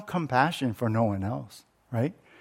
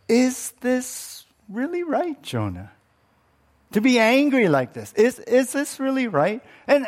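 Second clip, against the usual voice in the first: God's gentle challenge; 8 semitones higher than usual. Acted. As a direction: press him gently, really asking. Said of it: "the Lord responds".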